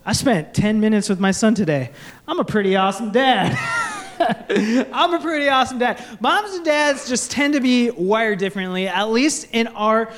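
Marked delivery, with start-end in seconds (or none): 2.3-3.6 self-satisfied boast; smug dad. Retold or imitated. Dad going to bed, smugly pleased with himself. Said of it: "this is me". 4.2-6.0 fast, laughing smug repeat; laughing boast. Retold or imitated. Dad repeating his boast to the crowd, laughing. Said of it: "this is me".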